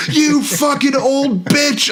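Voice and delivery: slow, high furious yelling. Retold or imitated. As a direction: scream it at the old driver. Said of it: "I was like".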